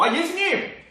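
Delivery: angry protest. Acted. Peter scolding Jesus for his weak talk, angry and loud. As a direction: scold him like an indignant disciple. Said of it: "화내면서".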